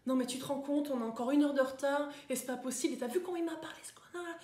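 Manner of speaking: mock outraged grumbling, pitch jumping up; indignant complaining passenger. Complaining passenger after an hour's delay, indignant. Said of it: "Est-ce que vous allez être celle qui est là".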